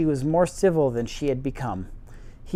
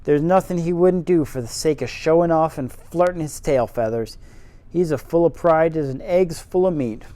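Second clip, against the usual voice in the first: faux Yorkshire accent. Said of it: "my terrible faux Yorkshire accent".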